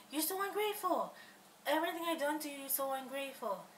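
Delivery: angry scolding. Retold or imitated. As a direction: snap it back as the offended roommate accusing her. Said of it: "she got so angry".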